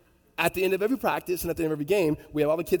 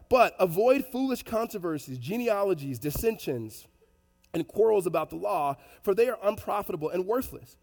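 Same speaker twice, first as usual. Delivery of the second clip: scripture reading; 4 semitones higher than usual. Real, not acted. Reads the Bible verse aloud.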